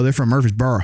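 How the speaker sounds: Southern "Murfreesboro" with a slurred "burra" ending; mock Southern twang. Mimicking how locals name their town, "Murfreesboro" in a Southern twang. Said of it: "overdo the twang like people do".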